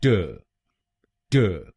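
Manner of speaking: ट said as a short "tuh", not टाई; a short ट instead of टाई; correct syllable. Shown as a demonstration. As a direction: say ट short, not the long TAI. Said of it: "इसकी सही pronunciation है".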